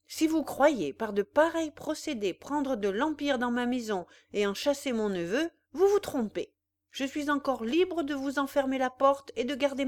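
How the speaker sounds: the insulted father shaking with rage; an old man's furious rebuke; angry old father. Acted. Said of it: "Des larmes de colère roulaient dans ses yeux".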